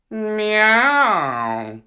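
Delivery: high meowing cat. Acted. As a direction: meow like a cat. Cat character speaks.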